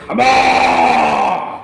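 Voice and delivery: long drawn-out cow moo, loud; the cow lowing at five o'clock; cow bellowing. Retold or imitated. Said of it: "ते मोठ्यानं".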